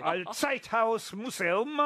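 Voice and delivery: slow, careful German on Zeithaus Museum; proudly showing off German; German pronunciation. Real, not acted. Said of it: "je prononce très, très bien".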